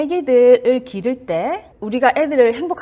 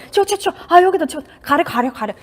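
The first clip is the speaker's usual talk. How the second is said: higher, hurried parent clearing away the water; mock fluster, rushing to hide it; 5 semitones higher than usual. Parent frantically removing what scares the child. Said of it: "보통 부모님들 어떻게 하냐면".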